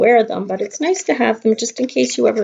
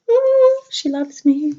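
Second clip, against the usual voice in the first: delighted oh; 7 semitones higher, 3 dB louder, slower than usual. Real, not acted. Friend made her a mask.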